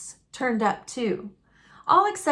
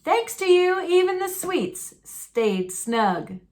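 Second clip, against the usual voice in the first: daddy thanking; 5 semitones higher than usual. A narrator's reading. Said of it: "said Daddy".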